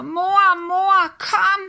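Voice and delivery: loud, high call for mum; crying out for mother. A narrator's reading. Girl alone in the snow calling her mother, loud cry. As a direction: call out desperately into the woods. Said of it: "græder og råber".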